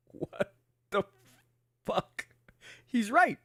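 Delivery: hushed, high, acted disbelief; stunned whisper. Trainee reacting to his officer's verdict, stunned whisper.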